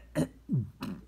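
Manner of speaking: short throaty attempt at a burp; failed fake burp. Teacher failing to demonstrate a burp, failed fake burp. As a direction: try to burp and only manage a little cough. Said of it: "Oh, I can't do that".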